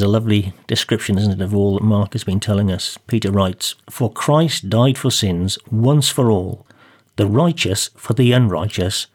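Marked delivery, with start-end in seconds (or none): 3.9-9.1 slow, measured Bible reading; a minister reading scripture to the listeners, slow and measured. Acted. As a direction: read the verse slowly and deliberately. Reads a Bible verse aloud.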